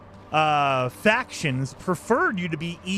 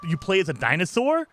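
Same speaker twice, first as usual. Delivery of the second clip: ordinary delivery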